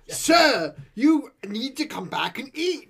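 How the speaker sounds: put-on comic London-accented Alfred losing patience; Michael Caine. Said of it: "a stellar Michael Caine, Alfred".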